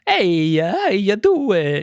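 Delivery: cartoonish Italian plumber, pitch leaping up; slow, squeaky-high video game hero imitation; high-pitched Mario. Fan shows the classic game voice, high-pitched Mario. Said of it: "the high-pitched".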